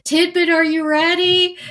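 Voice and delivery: playful high voice calling out to Laura Dern; sweet Lynch impression. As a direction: coo it like a doting director. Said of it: "he's just like".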